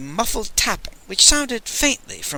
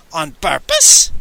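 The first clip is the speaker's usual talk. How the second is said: outraged; 6 dB louder than usual. Acted.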